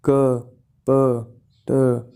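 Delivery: क, प, ट as separate short sounds, "kuh, puh, tuh"; sounded-out phonemes. Shown as a demonstration. Teacher listing example phonemes for students, each sounded out separately. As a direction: sound out क, प, ट singly, pausing between each. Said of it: "If we add aspiration H to some phoneme".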